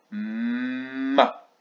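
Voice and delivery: MA with a very long hummed M; son de syllabe. Shown as a demonstration. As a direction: hum on M before opening Ma. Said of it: "pour faire le son". (« Ma » avec un M très prolongé)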